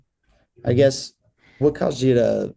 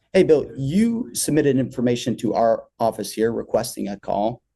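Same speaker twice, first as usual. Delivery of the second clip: downtown tone opener. Shown as a demonstration. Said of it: "right away, just, like, downtown".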